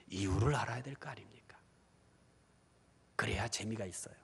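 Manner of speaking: soft unvoiced question; whisper. Real, not acted. Preacher whispering a pointed question to the congregation.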